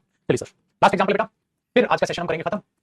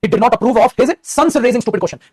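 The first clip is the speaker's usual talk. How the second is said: very slow, louder dictating voice; slow, raised dictation voice; 5 semitones higher, 6 dB louder, much slower than usual. Shown as a demonstration. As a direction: read it out slowly so they can write. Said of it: "paper में आएगा".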